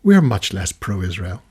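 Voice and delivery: low, slow, dry deadpan reply; calm deadpan. Retold or imitated. Jon Snow calmly answering the lady in lift, low deadpan. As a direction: deliver the punchline dead calm and slow. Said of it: "He said".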